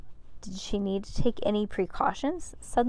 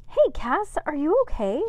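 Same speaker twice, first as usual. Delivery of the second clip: put-on sweet girl voice; 8 semitones higher, 5 dB louder than usual. A narrator's reading. Amber voiced by the narrator.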